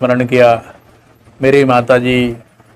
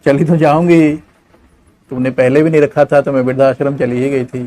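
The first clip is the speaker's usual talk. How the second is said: sad mother. Acted. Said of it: "माँ ने कहा".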